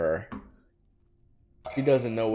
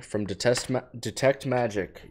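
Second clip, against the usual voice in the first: radio voice; 3 semitones higher than usual. Pretend. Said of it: "start doing the old radio voice".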